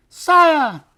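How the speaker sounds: loud, very high little mouse cry; shrill voice. A narrator's reading. Mouse calling the king from near the ground, shrill voice. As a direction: pipe up shrilly to be noticed. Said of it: "came a shrill voice from near the ground".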